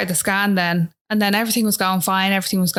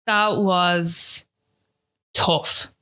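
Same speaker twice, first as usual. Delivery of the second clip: hushed and choked; much slower than usual. Real, not acted. Emotional close.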